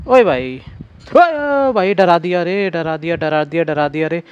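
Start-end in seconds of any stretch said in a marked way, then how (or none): 0.1-2.7 sudden high startled cry after a jump scare; startled yelp. Real, not acted. Gamer yelps when the ghost jumps out.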